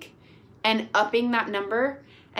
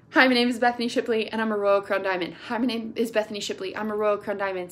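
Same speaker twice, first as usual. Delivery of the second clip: repeated affirmation; faster than usual. Shown as a demonstration. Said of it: "Say it over and over".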